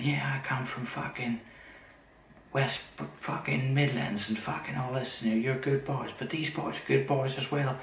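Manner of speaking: a light, sly put-on of her friendly patter; imitating the British woman. Mimicking the undercover woman sweet-talking the soldiers, lightly put-on voice.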